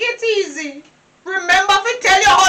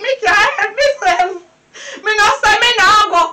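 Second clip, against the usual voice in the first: crying, raised protest; tearful quarrel. Acted. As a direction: sob out her complaint at the partner. Tearful argument with her partner.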